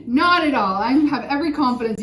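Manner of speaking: laughing while speaking. Real, not acted. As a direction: laugh it out reassuringly. Laughing reassurance.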